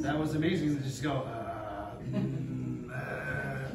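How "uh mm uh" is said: low, wordless zombie moan; drawn-out, understated zombie noises; zombie groans. Shown as a demonstration. Actor demonstrating the noises from a long session, zombie groans. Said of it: "just make zombie noises for four hours straight".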